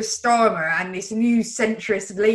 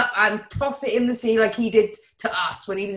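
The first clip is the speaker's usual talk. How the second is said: loud outburst; 2 semitones higher, 4 dB louder than usual. Retold or imitated. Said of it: "like this explosion of".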